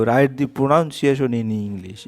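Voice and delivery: slow, word by word like dictation; dictating a question slowly; slow read-aloud. Shown as a demonstration. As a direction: read it out slowly for pupils to copy. Teacher reads the question slowly.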